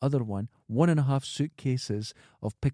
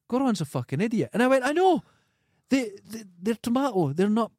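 mock indignant self; 9 semitones higher than usual. Retelling a row with partner, mock outraged. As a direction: play yourself, outraged and squeaky. Retold crisp argument, quoting self.

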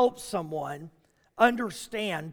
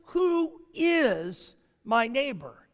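a bit of a tone; much slower than usual. Acted. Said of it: "a little bit of a tone".

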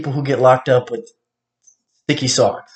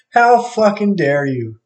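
slow mock indignation, high; mock outraged; 7 semitones higher, slower than usual. Repeating the imagined jab at someone he's angry at, slow mocking outrage. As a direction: drag the words out, jeering.

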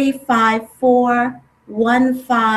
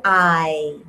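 exhaled vowel sound; 7 semitones lower than usual. Shown as a demonstration. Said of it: "Exhale, saying".

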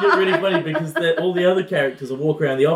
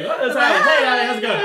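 mock unbothered greeting; 5 semitones higher, faster than usual. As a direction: act out oblivious, casual cheer. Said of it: "they're just completely fine with".

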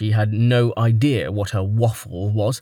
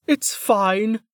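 grunt; 11 semitones higher than usual. A narrator's reading. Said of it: "Velika grunted".

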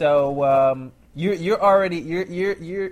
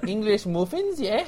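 put-on wobbly British accent; 4 semitones higher than usual. Waiter offering English muffins, in badly faked British accent. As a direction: draw out the words in a fake British accent. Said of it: "couldn't stay in the accent there".

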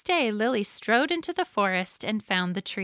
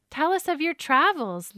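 higher-pitched, eager storybook plea; begging; 7 semitones higher, 3 dB louder than usual. A narrator's reading. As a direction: lightly beg for a tale. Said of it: "Lily begged".

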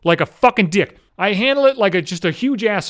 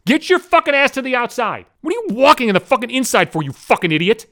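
mock-irate griping at someone; audible bitching; 4 semitones higher than usual. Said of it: "hear me bitching at your fucking ass".

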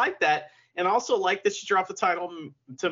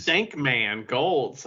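savoring the phrase; much slower than usual. Real, not acted. Savoring co-host's funny slip.

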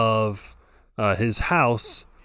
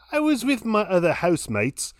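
put-on Cockney accent; 5 semitones higher than usual. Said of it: "Can you do it in a Cockney accent?".

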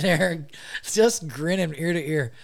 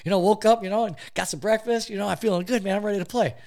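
higher, breezy fake-fine voice; cheery hungover buddy; 5 semitones higher than usual. Imitating Dusty brushing off the hangover, higher and breezy. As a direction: play it up like nothing's wrong. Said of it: "And he's like".

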